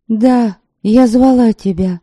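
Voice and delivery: steady yourself and speak firmly; твёрдо. A narrator's reading. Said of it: "стараясь говорить твёрдо". (стараясь говорить твёрдо)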